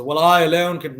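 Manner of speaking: a cocky I-can-do-it-alone voice; mock arrogance. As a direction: play the arrogant know-it-all. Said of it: "because you're arrogant or you're self-involved".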